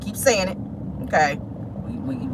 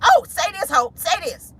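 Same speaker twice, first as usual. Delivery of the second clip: higher-pitched imitation of coaxing a child; mock prompting a toddler to talk; 6 semitones higher than usual. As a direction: imitate an eager parent coaxing. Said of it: "you want everybody to be like".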